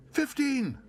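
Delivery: very high, loud wild shout. A narrator's reading. Bear wildly shouts a bid at auction. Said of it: "shouted Paddington wildly".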